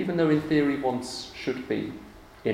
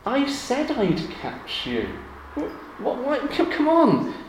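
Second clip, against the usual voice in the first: mock anger; 9 semitones higher than usual. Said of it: "I could get angry".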